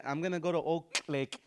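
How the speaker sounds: hard K burst closing "Oak"; exploding K practice. Shown as a demonstration. Teacher's practice sentence, K exploded in "Oak". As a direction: pop the K in "Oak" before "Lake". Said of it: "start practicing it like this".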